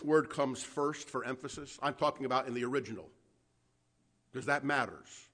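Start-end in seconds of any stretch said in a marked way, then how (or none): none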